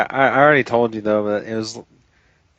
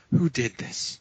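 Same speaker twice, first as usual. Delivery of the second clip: softer, mock-outraged question; imitated accusing demand; 3 semitones higher, 5 dB quieter, slower than usual. Gym lifter hunting whoever farted, restrained mock outrage. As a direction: demand the culprit, holding the volume back. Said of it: "he's yelling at everyone around him".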